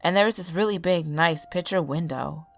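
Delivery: lightly voiced tired drifter; weary stranger voice. Stranger tells his story.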